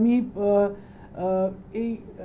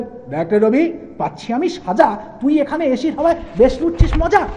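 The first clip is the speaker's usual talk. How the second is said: loud acted scolding in verse; hammed-up indignant rebuke; mock scolding; 6 semitones higher, 7 dB louder than usual. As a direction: scold him in a raised, theatrical voice. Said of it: "ধমকে বলেন".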